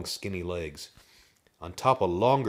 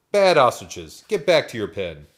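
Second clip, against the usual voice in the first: loud barnyard yell; yelled scolding; 4 semitones higher, 12 dB louder than usual. A narrator's reading. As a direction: order the birds back with a raised voice. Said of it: "a voice yelled from the barn door".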